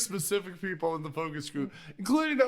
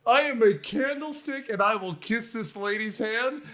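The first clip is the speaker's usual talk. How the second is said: Lumiere impression. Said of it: "Lumiere here is B".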